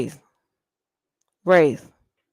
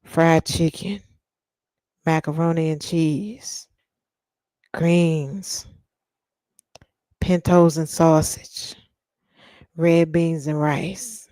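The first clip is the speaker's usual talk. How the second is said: mock sultry; slower than usual. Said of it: "this is how men turn me on".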